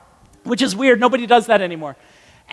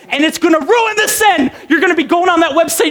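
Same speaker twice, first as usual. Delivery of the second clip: raised, nagging high-pitched voice; annoying high pitch; 5 semitones higher than usual. Shown as a demonstration. Preacher haunting tempted listeners, annoying high-pitched voice. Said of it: "my annoying, high-pitched voice".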